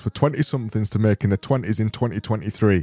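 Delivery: a hammed-up Yorkshireman selling his cookbook; silly Yorkshire accent. Yorkshireman hosts a mock advert for his cookbook, silly Yorkshire accent. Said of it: "All I'm doing is this silly accent".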